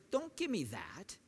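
a firm, commanding God insisting; a no-nonsense God laying down the law; stern God refusing excuses; God getting in his face. Retold or imitated. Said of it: "picture him getting in his face".

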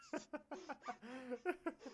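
high, breathy giggling; re-enacted laughing fit. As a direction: giggle helplessly at nothing. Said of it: "you're laughing over nothing".

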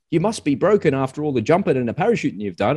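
lightly voiced know-it-all soldier; other soldier. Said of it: "And he goes".

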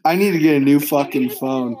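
muffled phone sound; like talking from a fish tank; underwater. Real, not acted. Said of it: "you sound like you're in the water".

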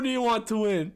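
lady's voice. Retold or imitated. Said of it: "the lady's like".

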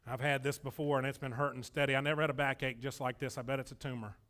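low, soft worried mumble; fretting out loud. Retold or imitated. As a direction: play the hypochondriac moping. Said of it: "if you say".

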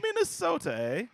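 hammed-up Minnesota accent, squeaky high. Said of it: "regional dialects".

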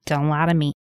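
dropped low, playfully stern; mock stern warning. Repeats the mock warning lower.

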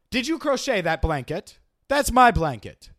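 badly faked British accent, slowing at the end; a hammed-up, awkward go at British. Host tries another British accent, badly faked. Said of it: "It's awful, right?".

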